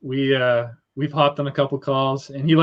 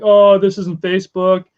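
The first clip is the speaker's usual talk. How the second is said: put-on slow, higher grumbling old folks; 5 semitones higher, 4 dB louder, slower than usual. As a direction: mimic a fussy older person. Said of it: "all the old folks".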